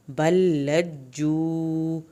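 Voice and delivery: بل لجو with the l doubled and the j stressed; slow chanted phrase. Shown as a demonstration. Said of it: "لام کی شد پڑھنی ہے".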